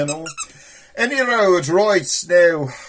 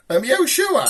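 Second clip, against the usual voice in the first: squeaky doubt; 9 semitones higher than usual. Acted. Doubting the puppet.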